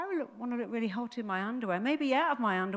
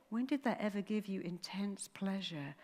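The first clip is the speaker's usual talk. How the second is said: whispered, softer, coaxing; tempting whisper; 8 dB quieter than usual. Acted. Brain tempting with pizza.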